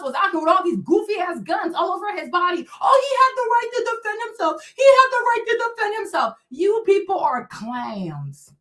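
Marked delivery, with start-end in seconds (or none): 2.8-6.3 high, sing-song mock defense; mocking imitation. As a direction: parrot their excuse in a higher voice. Mocks defenders of Rittenhouse.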